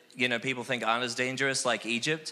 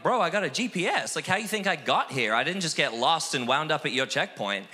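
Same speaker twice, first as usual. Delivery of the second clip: retold cocky comeback, pitched up; gangster cockiness; 4 semitones higher than usual. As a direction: act out mouthing off to a cop. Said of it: "I go all gangster on this cop".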